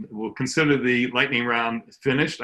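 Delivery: out of breath. Real, not acted. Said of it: "I feel like I'm out of breath".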